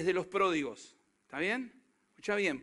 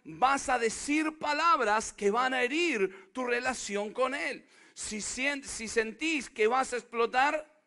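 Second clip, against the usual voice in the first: preached quote; 3 semitones higher than usual. Acted.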